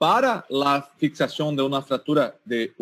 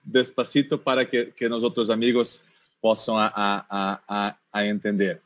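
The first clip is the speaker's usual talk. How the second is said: Spanish with a Brazilian Portuguese accent; Portuguese speaker's Spanish, Portuguese accent; spanish portuguese mix; 2 semitones lower than usual. Real, not acted. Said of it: "lo siento por mi portuñol".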